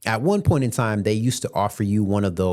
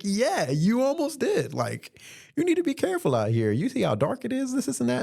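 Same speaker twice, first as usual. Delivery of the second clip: mock stern warning; 14 semitones higher, 3 dB quieter than usual. Warning passenger, high put-on voice.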